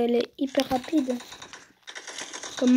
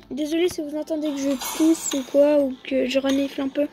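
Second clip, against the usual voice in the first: voice with a cold. Real, not acted. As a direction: sniffly voice from a head cold. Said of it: "J'ai le rhume et".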